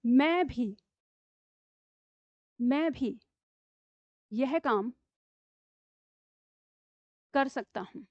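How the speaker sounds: slow, with long pauses between words; slow dictation. Shown as a demonstration. Teacher dictating the sentence slowly to pupils. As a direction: dictate word by word for the class to write. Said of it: "हम निपात लगा के इस वाक्य का प्रयोग करके देखते हैं".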